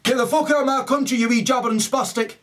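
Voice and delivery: high, rapid-fire telling-off; mock angry expulsion. Angry local ordering someone out of the country, mock fury.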